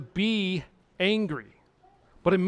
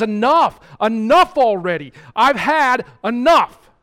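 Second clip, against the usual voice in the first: louder and louder, an angry divine outburst; the Lord's anger; 4 semitones higher, 10 dB louder than usual. Acted. God rebuking Solomon's sin, loud and furious. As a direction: thunder it like God who has had enough. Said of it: "he says".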